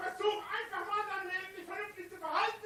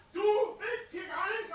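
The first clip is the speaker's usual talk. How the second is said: berserk rage; 3 semitones higher, 6 dB louder than usual. Real, not acted. Shouting at hecklers.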